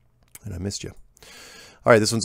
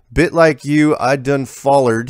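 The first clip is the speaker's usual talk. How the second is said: higher and louder, slow country drawl; folksy rural accent; 5 semitones higher, 6 dB louder, slower than usual. Retold or imitated. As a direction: lean into the hick voice on "follered". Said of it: "He's not breaking character".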